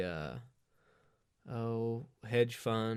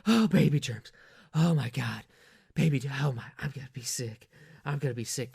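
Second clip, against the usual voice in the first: hysterical lady; 2 semitones higher, 4 dB louder than usual. Retold or imitated. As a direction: overdo a disgusted woman about to be sick. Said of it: "wife melting down over sneeze".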